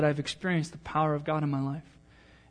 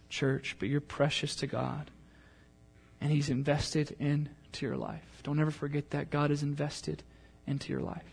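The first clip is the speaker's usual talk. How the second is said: soft reassurance; 6 dB quieter than usual. Real, not acted. Softer pastoral reassurance.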